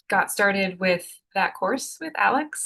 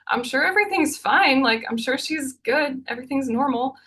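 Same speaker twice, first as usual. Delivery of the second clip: higher, lightly voiced mom soothing; reassuring mom; 6 semitones higher than usual. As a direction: imitate mom saying it's fine, gently. Mom reassuring on the ride home.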